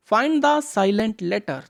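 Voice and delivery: slow, deliberate reading of the question; slow read-aloud. Shown as a demonstration. Teacher reading the exam question to children, slow and clear. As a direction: read each word clearly for the kids. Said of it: "reads heading slowly".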